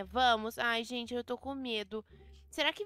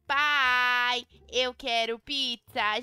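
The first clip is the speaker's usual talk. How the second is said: "Pai, eu quero pizza" louder, slow and drawn out; louder insisting; 6 dB louder, much slower than usual. Acted. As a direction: insist on the pizza, calling dad.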